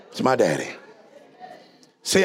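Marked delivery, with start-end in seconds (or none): 0.1-0.7 much lower and softer, said close; quiet tender echo. Shown as a demonstration. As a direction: hush it like a loving secret.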